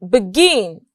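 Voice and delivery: "begin" stressed on its second syllable; stress on GIN. Shown as a demonstration. Teacher showing word stress, "begin" weighted on gin. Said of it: "The stress is on".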